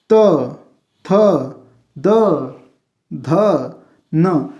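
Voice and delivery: त थ द ध न, each tongue-on-teeth sound said slowly and separately; dental consonants demo. Shown as a demonstration. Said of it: "दांत पे टकरा रहा है ना". (दांत पर जीभ लगाकर त थ द ध न)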